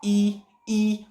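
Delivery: "ई" said twice, long and spaced; teacher showing "ई" as a palate sound; palatal vowel demo. Shown as a demonstration. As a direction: sound out "ई" "ई" slowly. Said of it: "आप बोल के देखो".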